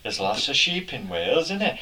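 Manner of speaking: shaky go at Welsh, lilting up at the end; badly faked Welsh accent; attempted Welsh accent. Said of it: "I can't do Welsh accents".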